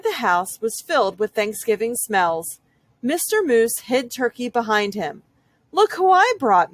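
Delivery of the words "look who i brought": high, loud proud announcing; proud announcement. A narrator's reading. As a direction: show off the guests.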